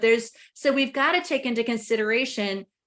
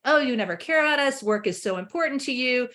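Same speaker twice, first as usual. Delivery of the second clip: accusing reply; 2 semitones higher than usual. Retold or imitated. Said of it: "you can hear the story that happens".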